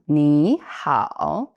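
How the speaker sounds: ni hao said as a whole, both dipping tones. Shown as a demonstration. Teacher gives the full hello for learners to copy. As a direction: model ni hao for the learner to repeat. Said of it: "you just said hello in Chinese".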